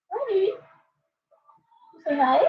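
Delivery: high, sing-song coo at the bird. Real, not acted. Owner cooing to her cockatoo in baby talk. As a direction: coax the parrot to say hi, drawn out.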